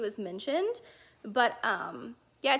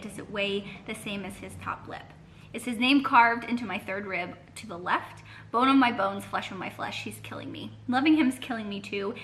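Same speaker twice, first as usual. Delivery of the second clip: poem reading. Acted. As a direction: read it like a confession, voice dropping. Reading a poem aloud, intro.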